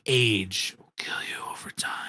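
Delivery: breathy whisper, words barely voiced; whispered line. Friend mocks a bad punchline, whispered delivery. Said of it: "What a terrible delivery".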